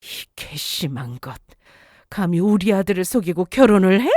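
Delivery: mother-in-law calling to berate her daughter-in-law; scolding mother-in-law. Acted. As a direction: growl it like a scornful mother-in-law.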